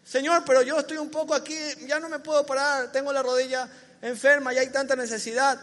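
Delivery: fast, loud complaining; an old believer grumbling to Jesus, hurried; complaining excuse. Acted. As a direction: pile up the complaints quickly.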